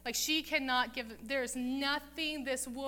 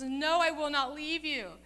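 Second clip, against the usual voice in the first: raised, insistent voice, acting out Ruth; clinging refusal; 4 semitones higher, 5 dB louder than usual. Ruth clings to her mother-in-law.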